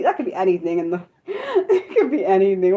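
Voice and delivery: talking through a laugh. Real, not acted. Streamer guessing a viewer's studies, laughing at herself. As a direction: crack up at your own words.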